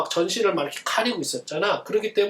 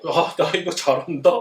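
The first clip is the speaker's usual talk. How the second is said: mock bragging; 4 semitones lower than usual. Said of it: "하고 남들을 막 비웃고".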